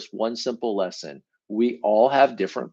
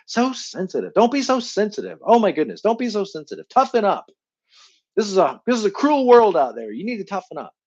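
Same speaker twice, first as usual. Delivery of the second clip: higher, dismissive nagging voice; scolding parent; 9 semitones higher, 4 dB louder than usual. Retold or imitated. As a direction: brush off a sensitive kid. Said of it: "You and fours".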